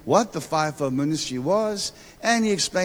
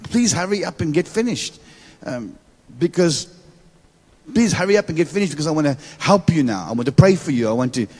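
frustrated prophet; faster than usual. Retold or imitated. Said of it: "the prophet gets frustrated".

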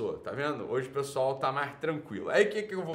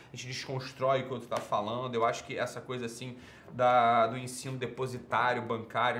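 lightly voiced whiny commenter, a little lower and softer; mock commenter voice; 4 semitones lower, 4 dB quieter than usual. Host mocking a YouTube commenter, lightly voiced know-it-all. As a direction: sneer at him by playing the know-it-all critic.

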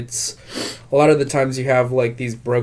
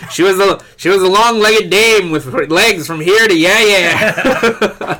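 noir detective voice; 7 semitones higher, 5 dB louder than usual. Pretend. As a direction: narrate like a pulp detective. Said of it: "read the dialogue in that voice".

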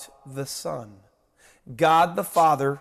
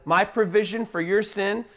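voice of God proclaiming; 6 semitones higher than usual. Pretend. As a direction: declare God's plan of salvation. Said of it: "Now God says".

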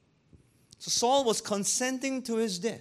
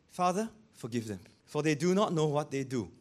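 gentle prayer; 5 semitones lower than usual. Acted. Voices Jesus praying on cross.

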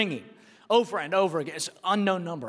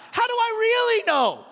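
higher, indignant retold question; heated challenge; 4 dB louder than usual. Pastor retelling arguing with the game warden, heated. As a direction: push back, suspicious and heated. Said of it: "and I got heated".

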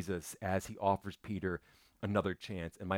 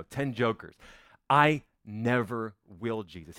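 1 earnest vow. Acted. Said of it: "he goes".

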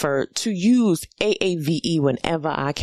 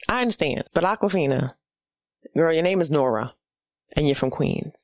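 ordinary talk, nothing marked

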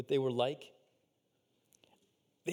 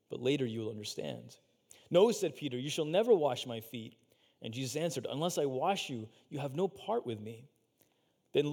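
measured, lower reading voice; scripture reading; 3 semitones lower than usual. Acted. Preacher reading the foot-washing passage to the congregation, measured. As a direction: read the passage steadily, like a lesson.

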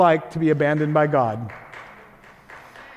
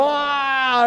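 long held, raised "ah" at no extra volume; mock holler; 4 semitones higher than usual. Preacher guessing how Jesus cried out, restrained holler. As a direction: imitate a drawn-out cry, held back. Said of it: "Maybe he just hollered".

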